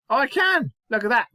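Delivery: high, loud burst of delight; mock-triumphant exclamation. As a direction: crow it, pleased with yourself. Celebrates spelling the word correctly.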